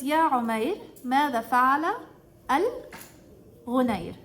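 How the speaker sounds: a hint of a gentle, comforting voice; tender quote of the Prophet. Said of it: "and he says".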